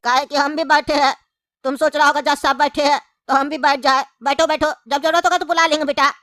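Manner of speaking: normal talking voice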